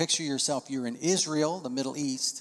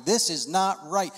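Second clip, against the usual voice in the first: indignant mutter; 4 semitones higher, 5 dB louder than usual. Retold or imitated.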